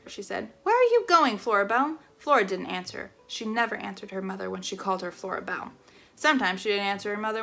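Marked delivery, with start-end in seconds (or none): 0.6-2.0 calling out. Acted. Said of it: "her mother called to her".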